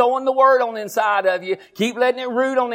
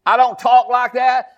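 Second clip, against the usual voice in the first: declaring; 4 dB louder, slower than usual. Shown as a demonstration.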